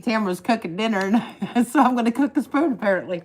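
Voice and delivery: hoarse, worn voice. Real, not acted. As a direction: talk through a sore, scratchy throat. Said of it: "Sorry, I'm a little hoarse".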